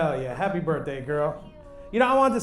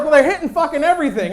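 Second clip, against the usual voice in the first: higher, louder child's protest, mock; little boy yelling; 7 semitones higher, 6 dB louder than usual. Five-year-old arguing with dad, mock yelling. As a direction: imitate an outraged small boy. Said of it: "my five-year-old little boy".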